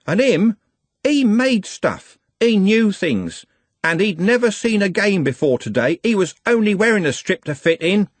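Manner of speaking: anguished rage. Acted. Trev defending Nut to the gang, anguished fury. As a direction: rage through grief for his friend.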